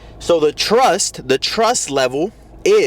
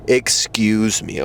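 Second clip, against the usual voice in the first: slow, lower, measured call for attention; poised, unhurried delivery; projected, poised; 4 semitones lower, slower than usual. Shown as a demonstration. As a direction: say it slowly and assuredly. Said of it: "Project your voice when you say it".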